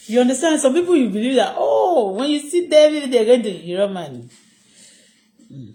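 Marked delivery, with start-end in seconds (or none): 0.1-4.3 excited. Real, not acted. Excited rant about politicians laughing.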